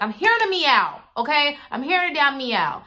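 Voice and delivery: high, loud, fed-up retelling; incredulous rant to her brother; exasperated complaint. Retold or imitated. Telling brother about cat noise.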